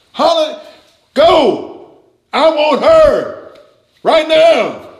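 high, loud demanding yell; screaming demand. Retold or imitated. Preacher voices the flesh screaming its demand, loud and high. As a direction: bark the craving like a tantrum. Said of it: "It's screaming, it's hollering, it's demanding".

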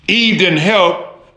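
ordinary talk

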